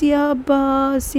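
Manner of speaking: slow, weakening cry to Abbas; fading call. Acted. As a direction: call again, strength draining. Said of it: "ત્રણ વખત કીધું".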